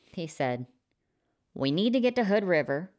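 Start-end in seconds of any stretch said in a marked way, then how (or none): 1.5-2.9 Blake's voice. A narrator's reading. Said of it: "said Blake".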